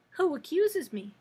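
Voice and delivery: high, loud challenge from the kitten; defiant. A narrator's reading. Accused kitten challenging the princess, defiant. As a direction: raise pitch and volume, daring them to accuse. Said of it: "asked the kitten defiantly".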